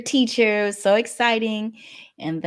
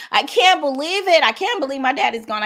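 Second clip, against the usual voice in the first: high, loud anguished cry of grief; retold screaming; 7 semitones higher, 5 dB louder than usual. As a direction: wail out the news of her dad. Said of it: "I literally started screaming".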